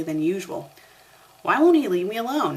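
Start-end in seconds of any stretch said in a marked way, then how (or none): 1.4-2.6 demanding. A narrator's reading. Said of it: "Harry demanded".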